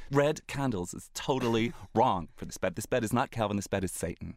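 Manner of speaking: lightly voiced fussy director; disdainful boss. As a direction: scorn the red candles.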